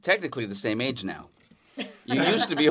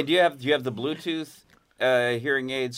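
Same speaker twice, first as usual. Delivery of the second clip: repeated louder for a hard-of-hearing guest. Real, not acted. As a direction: say it again, louder. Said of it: "I didn't hear a damn thing you said".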